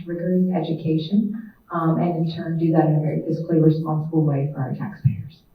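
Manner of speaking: loud, carrying classroom voice; projected teacher voice. Real, not acted. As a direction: project to the back of the room. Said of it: "I can try to project with my teacher voice".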